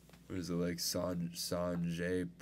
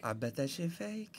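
high-pitched teasing jeer; mocking heckle; 8 semitones higher, 4 dB quieter than usual. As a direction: jeer at a friend in a high put-on voice. Mocking challenge of friend's watch.

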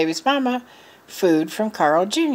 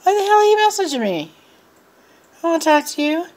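high, loud mock outburst; shrill-free yell back at the scammer, much higher; a retold snap, loud and high; retold angry yell; 10 semitones higher, 4 dB louder, faster than usual. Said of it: "I'm like".

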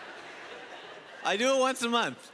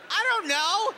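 exasperated yell; 12 semitones higher, slower than usual. Retold or imitated. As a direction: let the exasperation burst out. Exasperated retort to dog owner.

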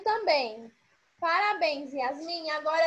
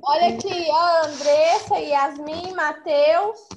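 calling out names; 7 dB louder than usual. Real, not acted. Teacher calling kids to attention.

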